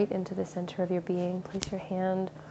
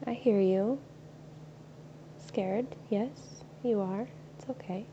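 fading softer to a near hush on It's okay; tender reassurance; 6 dB quieter than usual. Acted. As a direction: comfort a scared child, softly.

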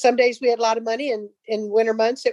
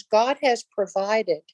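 awed thanks; much slower than usual. Retold or imitated. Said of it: "waved it in the air and he goes".

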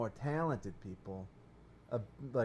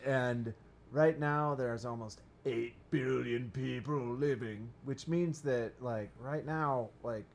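ponderous voice; slower than usual. Pretend. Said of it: "I don't do it in that voice".

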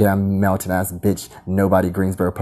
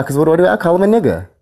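heated; 8 semitones higher than usual. Real, not acted. Heated rant.

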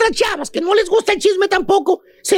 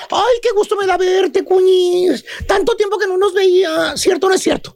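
fake-sweet exclaiming. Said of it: "exclama esas palabras. Dice".

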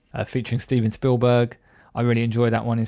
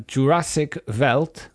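put-on German accent; 3 semitones higher, slower than usual. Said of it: "like a stereotypical Dutch person".

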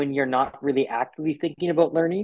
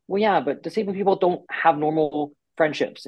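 higher-pitched voice of a doubter; put-on "well, yeah, but" protest; mock objection; 4 semitones higher than usual. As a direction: lightly imitate someone raising an objection.

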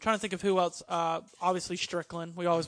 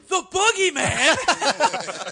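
slow, stretched, louder and higher; excited recognition; 8 semitones higher, 9 dB louder, much slower than usual. Retold or imitated. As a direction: call out the name in delight. Omega spots Boogeyman.

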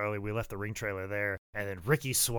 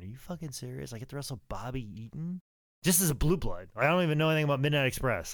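put-on teenage self, incredulous; 4 semitones higher, faster than usual. Teenage fan told his wrestling future, incredulous. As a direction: build from hushed disbelief to giddy protest. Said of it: "if you told thirteen-year-old or fourteen-year-old Jake Manning".

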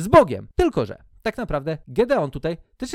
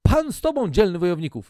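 mock angel greeting; 4 dB louder than usual. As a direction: tease the grand title. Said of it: "anioł Pana i mówi".

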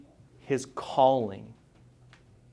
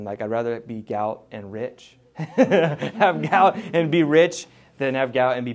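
laughing; 5 dB louder than usual. Real, not acted. Joking about gout and riches.

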